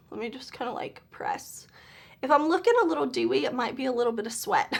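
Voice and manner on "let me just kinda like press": barely voiced whisper. Real, not acted. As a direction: breathe the words out. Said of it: "pressing face, softly".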